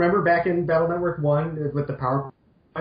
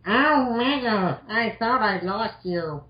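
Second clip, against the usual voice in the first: higher, slow hammed-up relief; voicing Roll; 6 semitones higher, slower than usual. Roll finding Mega Man awake, high, slow and hammed up. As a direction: drag it out like a relieved sweetheart.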